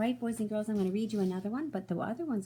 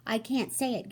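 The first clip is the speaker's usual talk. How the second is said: higher, giggly rhino; giggling; 5 semitones higher, 5 dB louder than usual. Acted. Rhino too amused to say his name, giggling. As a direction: squeeze it out through giggles. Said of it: "giggled the rhinoceros".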